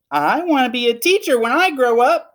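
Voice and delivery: Lily declaring she'll be a teacher; eager little girl. Acted. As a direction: announce your dream proudly. Lily declares her dream.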